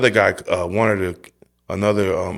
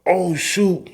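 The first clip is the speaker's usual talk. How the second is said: retold shock; 10 semitones higher, 4 dB louder than usual. Seeing blood from his thumb.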